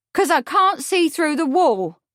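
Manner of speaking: high, loud, scornful crowing; scornful triumph. A narrator's reading. Witness answering the lawyer before spectators, scornful triumph. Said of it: "in scornful triumph".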